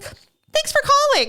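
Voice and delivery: high, drawn-out phone-service voice; retold sign-off. County worker closing the call with Jamie, retold sign-off. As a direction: imitate a sing-song customer service goodbye. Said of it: "she's like".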